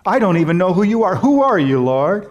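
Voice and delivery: pleading, rising astonished question; Paul asking the Lord. Retold or imitated. Paul on the road to Damascus, asking Jesus in urgent disbelief. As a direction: ask as if struck down on the road. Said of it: "he says".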